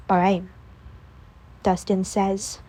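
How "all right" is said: energy gone. Acted. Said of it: "all the energy gone from his voice".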